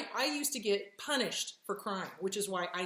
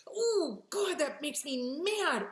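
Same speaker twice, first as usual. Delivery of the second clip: higher, louder huffy self-talk; mock frustrated self-talk; 8 semitones higher, 5 dB louder than usual. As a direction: act out catching your own anger. Acting out normal anger.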